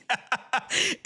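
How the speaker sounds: high giggling laughter. Real, not acted. Laughing at the story.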